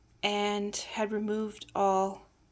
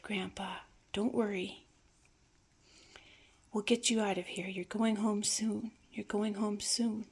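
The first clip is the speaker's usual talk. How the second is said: mild, tender comforting; gentle reassurance. Retold or imitated. Granddaughter soothing her distressed grandfather.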